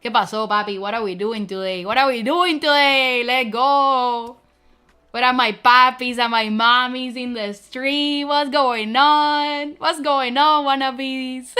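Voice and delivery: loud, hyped Latino street greeting; full Latino. Pretend. Vtuber hyping her chat in full Latino mode. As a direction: bring the full Latino energy to the crowd. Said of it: "I can bring the full Latino".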